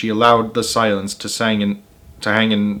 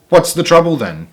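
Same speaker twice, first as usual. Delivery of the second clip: glaring mother; 7 semitones higher, 4 dB louder than usual. Acted. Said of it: "glared at her and said".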